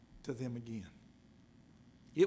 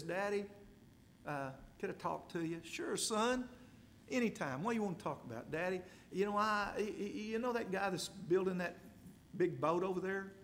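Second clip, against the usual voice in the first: put-on little boy; 2 semitones higher, 4 dB quieter than usual. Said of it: "the little boy says".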